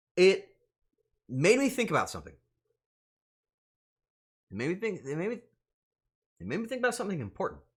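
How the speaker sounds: high, halting voice on verge of crying, restarting. Streamer talking about support from viewers; holding back tears. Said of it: "I'm not gonna cry".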